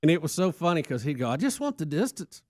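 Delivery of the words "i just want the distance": weak imitation of an Irish accent; a light, badly faked Irish accent. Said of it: "I can't do a good Irish accent".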